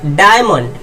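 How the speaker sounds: "डायमंड" with a clear "aay" glide. Shown as a demonstration. Teacher drilling students on "डायमंड", IA voiced as "aay". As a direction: say "डायमंड" opening on "daay". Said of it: "आय हो जाएगा".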